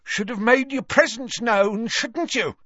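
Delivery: high, rough challenge; aggressive. A narrator's reading. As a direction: throw it out as an accusation. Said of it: "said Gaunt aggressively".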